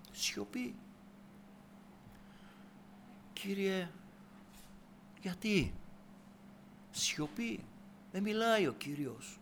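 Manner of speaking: very soft, near-whispered preaching; hushed. Acted. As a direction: let the silence hang between phrases. Preacher enacts God's unanswering silence.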